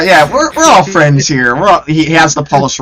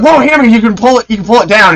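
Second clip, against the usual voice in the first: mock panic, pitched way up; nervous high voice; 10 semitones higher, 5 dB louder, faster than usual. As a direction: plead nervously with a gunman.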